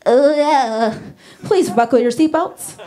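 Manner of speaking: lightly breathy pop singer announcement; lightly voiced pop star attendant; flight attendant. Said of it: "sound like a flight attendant".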